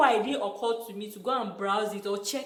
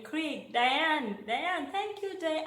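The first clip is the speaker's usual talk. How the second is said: imitating white girls; 5 semitones higher, 3 dB quieter, much slower than usual. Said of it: "the way other white girls were calling their name".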